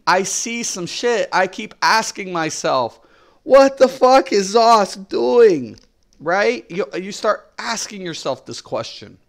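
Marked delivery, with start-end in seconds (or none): 3.4-5.8 loud, slow, disbelieving swear; fed-up gamer venting; exasperated outburst. Retold or imitated. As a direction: blurt it out like you can't believe what they did. Ranting at the studio's choices.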